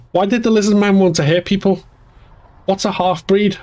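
put-on high-pitched, questioning child voice; little girl. A narrator's reading. Becky asking her brother about the lizard man, childlike. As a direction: ask like a puzzled little sister.

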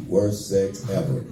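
slow, low, laughing through it. Real, not acted. Comedian recalling bad sex to crowd, laughing slowly. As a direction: chuckle as you drag out worst.

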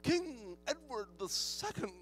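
high, loud, drawn-out ring announcer; hammed-up fanfare announcement, stretching every title; royal herald. Mock herald announcing a king's entrance.

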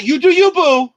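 high, loud sassy "you do you, boo". Pretend. Host to cohost, playful sassy affirmation. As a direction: give it with playful sass.

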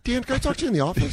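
high, fast mock summons; mock stern boss. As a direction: rush it out as the boss. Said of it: "boss voice".

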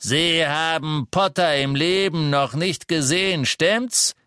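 contemptuous interrogation; angry Death Eater. A narrator's reading. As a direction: Selwyn taunting the liar. Selwyn accuses Lovegood.

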